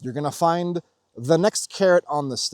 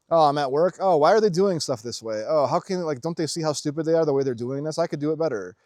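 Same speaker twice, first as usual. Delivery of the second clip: whiny complaining. Retold or imitated. Imitating a constant complainer griping at work, whiny. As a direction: act out a constant complainer, lightly exaggerated. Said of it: "the whiny, bitchy, complainy".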